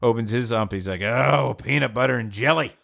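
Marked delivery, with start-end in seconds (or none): 1.0-2.7 mildly exasperated lunchbox complaint; dismayed. Acted. Polish worker finds his lunch, mildly dismayed.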